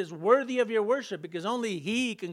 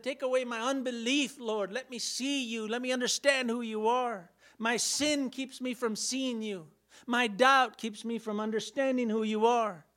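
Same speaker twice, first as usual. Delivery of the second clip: higher-pitched earnest appeal; pleading prayer; 4 semitones higher than usual. Acted. Doubter praying for unbelief to be taken away, pleading. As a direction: plead with God, a little raised.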